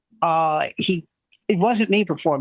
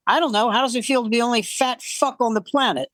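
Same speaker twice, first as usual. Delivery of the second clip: higher-pitched mock retort; retold comeback; 4 semitones higher than usual. Front-row man to mean emcee, ready comeback. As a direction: fire it back as the heckled man.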